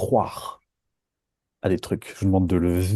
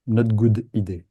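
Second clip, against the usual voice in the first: English with French accent. Shown as a demonstration. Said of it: "Avec mon accent super anglais".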